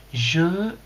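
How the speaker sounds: put-on English-accented French. Streamer starts reading Jean-Daniel's message, English accent. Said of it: "maintenant que je parle sa langue".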